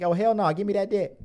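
put-on high loud teasing girl voice; mock female voice. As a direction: tease as his girlfriend. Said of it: "you were like".

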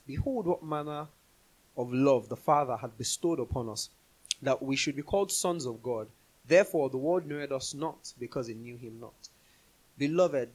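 measured, solemn Bible reading; steady formal reading of old scripture. Acted. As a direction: read the verses like holy writ. Reads the scripture passage aloud.

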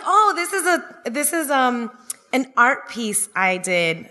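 lightly voiced kid, high and slow then settling; a hint of a kid showing off his drawing, drawn out; proud kid. Little brother presenting his scribble to the guests, lightly voiced slow kid.

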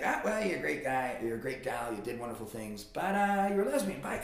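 lightly voiced breezy gatekeeper; mock gatekeeper. Gatekeeper sending a soul to hell, mock regretful. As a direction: build to a high, cheery dismissal. Voices judge at pearly gates.

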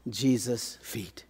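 slow whisper, almost no voice; a slow reverent whisper; hushed whisper. Acted. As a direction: breathe it out in awe, slowly. Reverent hush at Jesus' feet.

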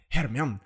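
"Hermione" said Spanish-style as "hermión"; Spanish-style pronunciation. Retold or imitated. Friend mocking Spain's dubbing, "Hermione" pronounced as Spanish "hermión". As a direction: squash "Hermione" into two syllables, her-MION. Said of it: "Cuando ellos pronuncian".

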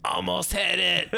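high, drawn-out shouted quote; mock defiant yell. Imitating Boris who will not die, mock shout. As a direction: slowly holler it as a movie impression.

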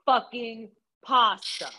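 slow, drawn-out exasperated insistence; retold angry demand. Telling a friend about the wrong pasta, mad. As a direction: spell it out slowly, fed up. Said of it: "so fucking mad".

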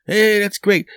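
high, bright clerk reply; chirpy clerk. Retold or imitated. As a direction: play the cheerful teller. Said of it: "Person behind the counter".

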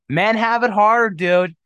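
loud, high, drawn-out joking whine; mock complaint. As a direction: wail it slowly as a joke grievance. Joke complaint, then just kidding.

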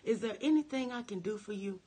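soft Jesus voice. Retold or imitated. Jesus gently offering help to the hurting. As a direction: ask it kindly like a patient healer. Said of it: "Jesus still says".

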